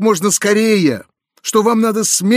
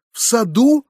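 exclaimed; 6 semitones higher than usual. A narrator's reading. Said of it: "вскричал я".

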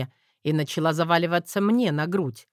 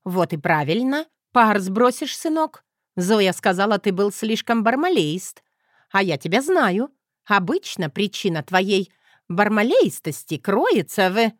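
higher, louder teasing mother; mocking mother; 5 semitones higher, 5 dB louder than usual. A narrator's reading. Mother teasing her son about his temper, higher and louder. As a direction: rib your son, knowing.

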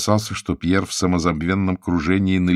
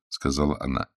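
usual speaking voice

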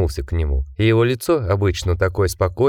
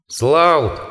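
called out; 6 semitones higher than usual. A narrator's reading. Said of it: "крикнул Псевдоэтридж".

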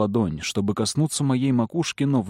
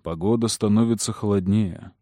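usual speaking voice

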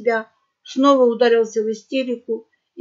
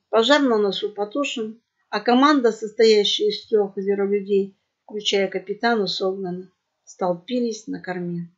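ordinary delivery, nothing marked

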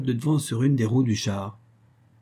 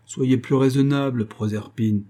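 fairly stern. Acted. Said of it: "d'un ton assez sévère".

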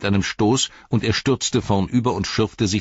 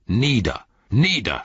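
higher pitched, forced-out order; blurted command; 4 semitones higher than usual. A narrator's reading. Frodo throws Gollum off him, blurted command. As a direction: thrust each word out, falling sharply. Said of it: "stieß er hervor".

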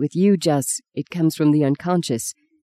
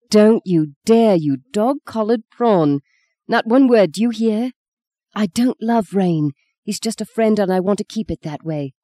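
scolding; 4 semitones higher than usual. Acted. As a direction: dare him to say one word, voice raised in outrage. Grabs his ear, scolds brother.

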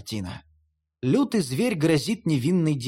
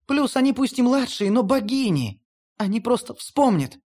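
higher, urgent, insistent goddess; Hel pleading, higher; 6 semitones higher than usual. A narrator's reading. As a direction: swear it desperately as Hel. (высоким голосом Хель, горячо)

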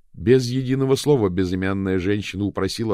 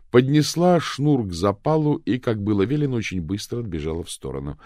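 plain reading voice

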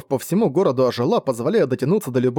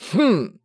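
drawn-out approving hmm, higher; the dragon weighing the deal, approving hmm; approving hum; 6 semitones higher than usual. A narrator's reading. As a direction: hum your approval, pleased. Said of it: "одобрительно протянул Огонь".

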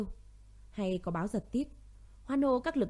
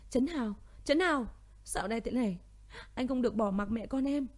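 mild crying; 3 semitones higher than usual. Acted. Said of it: "Cô khóc lóc chạy tìm Thiên Vũ".

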